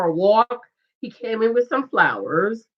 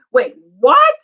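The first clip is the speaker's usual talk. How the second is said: shocked; 6 dB louder than usual. Retold or imitated. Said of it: "Jamie's like".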